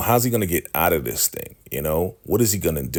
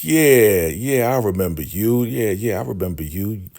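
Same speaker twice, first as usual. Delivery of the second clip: imitating a cheeky, unimpressed put-down; cocky attitude; 3 semitones higher than usual. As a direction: brush them off with mock scorn. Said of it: "Andrew's attitude is just crazy funny".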